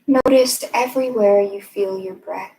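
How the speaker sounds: measured meditation guide, long pauses between phrases; guided meditation. Acted. Meditation teacher leading listeners to notice their breath, unhurried guided meditation. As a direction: guide them gently inward, leaving space after each phrase.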